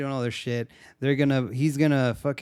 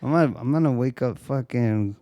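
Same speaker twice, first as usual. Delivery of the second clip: mock Chicano accent. Woman yelling at the android, hammed-up Chicano accent. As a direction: whine about missing your vato, Chicano style.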